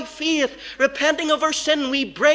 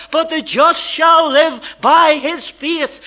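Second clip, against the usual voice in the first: slow, louder verse proclaimed; preaching climax; 3 semitones higher, 6 dB louder, slower than usual. Acted. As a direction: proclaim the verse slowly at full force.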